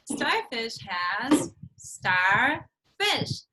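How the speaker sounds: "Starfish" stretched very slowly into its syllables; slow syllable split. Shown as a demonstration. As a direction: drag each syllable of "Starfish" out. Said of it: "Let's see how many syllables are inside".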